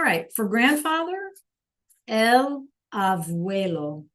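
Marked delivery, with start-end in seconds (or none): 2.1-4.1 slow classroom model of abuelo; slow demo. Shown as a demonstration. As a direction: spell out el abuelo slowly for the class. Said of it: "that B sounds like a B and a V".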